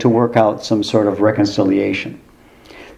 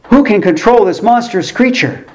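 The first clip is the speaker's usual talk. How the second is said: high-pitched, overwrought ad announcer's alarm; mock-grave concern, pitched way up with a gasp; hammed-up commercial panic; greatly concerned announcer; 9 semitones higher than usual. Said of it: "in a tone of great concern".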